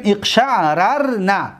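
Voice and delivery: اقشعررن slowly, as iqsha'-rar-na; unmerged r's. Shown as a demonstration. Teacher giving the sixth form, اقشعررن with the r's unmerged. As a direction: open up اقشعررن with both r's sounded apart. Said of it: "ادغام را کشادیم".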